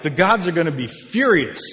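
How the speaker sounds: high, loud warning; hammed-up worried townsperson; mock alarm. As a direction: cry it out in playful panic. Voicing alarmed people of Asia Minor.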